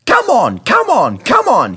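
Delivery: high, loud, driving puff; rhythmic engine chant; James puffing. A narrator's reading. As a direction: push the coaches hard. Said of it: "he puffed".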